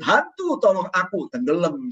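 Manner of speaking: preacher mocking a wrong plea to Hantu for help; mock wrong cry to the ghost. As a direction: comically call out to the ghost by mistake. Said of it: "Nah, nggak kebalik".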